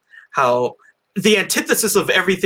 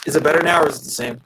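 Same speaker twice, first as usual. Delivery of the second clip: fuzzy distorted mic; robot voice from a bad mic; 5 semitones higher, faster than usual. Real, not acted. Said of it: "you kinda sound like you're doing a robot voice".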